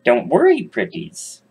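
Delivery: high witch croon fading to a hiss; high witch cooing at caged kids. Acted. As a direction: coo at them like a wicked witch. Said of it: "the woman says".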